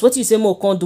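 ordinary delivery

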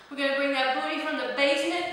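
deep, low and rushed. Shown as a demonstration. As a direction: start low in the basement. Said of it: "from the basement to the penthouse".

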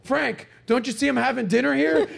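high, loud mock outrage with laughter; mock annoyed brush-off. Don Rickles snapping at Frank, mock angry. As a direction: shoo him off in fake irritation. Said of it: "Don Rickles goes".

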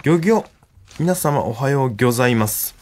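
lightly voiced fish-expert character catchphrase; Sakana-kun. Comedian attempts a listener-requested catchphrase, lightly voiced Sakana-kun. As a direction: try a tentative impression, restarting the opening. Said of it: "内海さんにやってほしいモノマネは".

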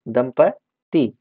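दंपत्ति very slow with the last syllable set apart. Shown as a demonstration. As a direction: pause before the final ti of दंपत्ति. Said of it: "या दंपत्ति नहीं".

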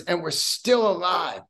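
shouts it out, proud; excited shout. Real, not acted. Proud about surviving friends.

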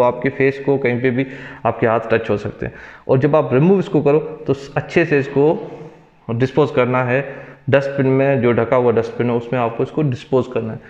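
muffled through surgical mask; speaking through a face mask. Real, not acted. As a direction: mouth covered by mask. Seen 3: Speaker wears surgical mask over mouth and nose throughout.

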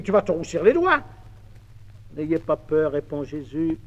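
plain reading voice

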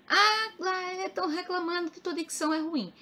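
imitating a nagging commenter; mock complaining. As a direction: drag out the opening in a high mocking complaint. Mimics viewers complaining about her diction.

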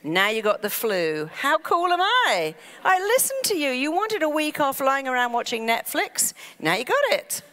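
the mind bragging to its owner, high and loud; gloating mind. Pretend. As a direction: crow like a smug servant who granted the wish. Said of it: "Your mind goes".

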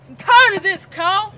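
loud, exasperated snap; fed-up outburst. Acted. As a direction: let the frustration boil over. Fed-up arguing with friend.

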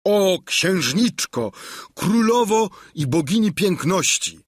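kneel and flatter like a herald; pompous mock homage. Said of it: "zawołał".

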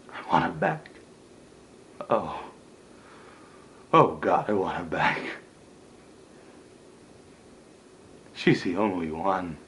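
low, softened, slowing plea; heartbroken, drained murmur; quiet despair. Acted. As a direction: sink into grief as you admit it. Acted despair over lost love.

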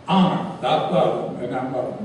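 deadpan preacher tone; mock pious. The speaker piously quotes scripture again.

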